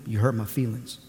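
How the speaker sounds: soft, low hurt whimper; sulky whine. Retold or imitated. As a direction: mope the line like a wounded child. Sulking husband retold.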